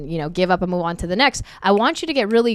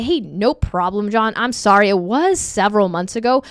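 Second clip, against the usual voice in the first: calm reassuring. Shown as a demonstration. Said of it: "You wanna say".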